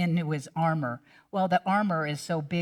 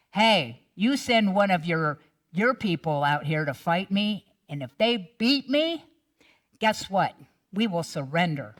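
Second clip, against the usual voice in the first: giant's taunt. Acted.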